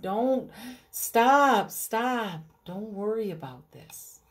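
Jesus soothing the frightened crowd; gentle reassurance. Acted. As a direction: settle them down kindly.

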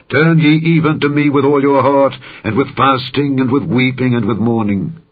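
fervent summons; impassioned divine plea. Acted. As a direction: cry it out as the Lord calling his people home. The Lord's words in scripture.

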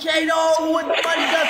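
hype shout. Real, not acted. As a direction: yell it out to hype the gifter. Hyping a gifter on stream.

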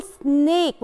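سنيك with a long "ay" vowel. Shown as a demonstration. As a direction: stretch the "ay" in سنيك. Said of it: "سامعين صوت letter A؟".

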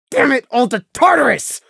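high, forceful exasperated oath; disgusted curse. A narrator's reading. Prey realizing who she met, disgusted outburst. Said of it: "as he realized in disgust".

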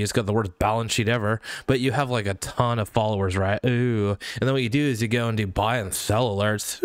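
normal talking voice

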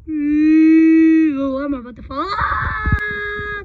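frightened cry while falling; tripping and falling. Real, not acted. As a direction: shout as the footing gives way. Falling from the high ledge.

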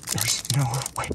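whispery words breaking into laughter; breathless, incredulous, then a high laugh; laughing disbelief. Real, not acted. Card opener can't believe the hit, laughing disbelief.

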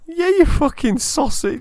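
high, slow put-on American accent; mock American drawl to tease a friend; a friend doing a hammy American accent to greet his squadmate; imitating Clay. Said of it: "I was trying to imitate Clay".

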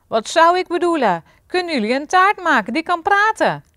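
high, loud outburst of an irate king; angry shout. A narrator's reading. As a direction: shout it indignantly at a servant. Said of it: "schreeuwde koning Zuurpruim".

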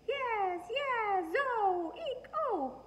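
put-on very high squealing baby voice; baby squeals. A narrator's reading. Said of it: "baby Louie said".

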